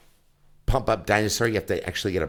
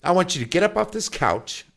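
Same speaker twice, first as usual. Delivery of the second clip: raised, emphatic fatherly orders; real stern dad; 4 semitones higher, 3 dB louder than usual. Retold or imitated. Dad sending his four-year-old to his room, real stern. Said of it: "real stern".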